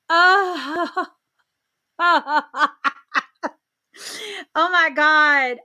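loud stunned gasp into laughter; shocked laugh. Real, not acted. Host reading viewer comment, loud shocked laugh.

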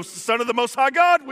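high, loud acted cry; hammed-up desperate wail; mock shriek. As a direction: shriek it like a man begging on his knees. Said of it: "and he's shrieking".

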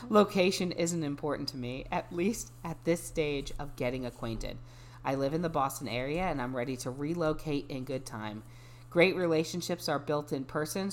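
measured, even read-aloud. Acted. Resuming a dating bio for a friend, measured reading voice. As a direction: drop back into a composed reading voice. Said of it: "go back into my reading voice".

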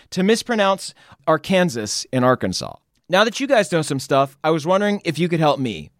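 strained, failing voice; voice giving out. Real, not acted. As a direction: voice fading and cracking. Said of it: "my voice is".

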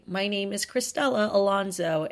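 put-on name in a plain American English accent; English pronunciation. Host introducing herself in a promo, English accent. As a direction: say Cristela Alonso the English way, with English vowels. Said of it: "saying your name with an English accent".

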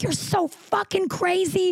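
high, slow mock of his disbelief; lightly hammed-up outraged ex; mocking boyfriend voice.

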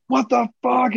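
shocked whisper, pitch jumping way up; startled retelling. Retold or imitated. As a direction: gasp it out under your breath in alarm. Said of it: "And I started screaming".

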